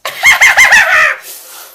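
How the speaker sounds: high, loud cackle; crazed burst of laughter; maniacal laugh. Acted. Critic cracking over the fanfic, crazed cackle.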